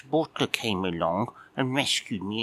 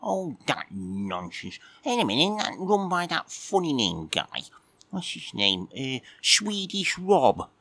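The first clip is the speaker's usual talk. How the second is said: high, squeaky grumpy cat puppet just woken; a sleepy, put-out little puppet admiral; cheeky puppet cat; 5 semitones higher than usual. Acted. Puppet cat grumbling at Mike for waking him, squeaky.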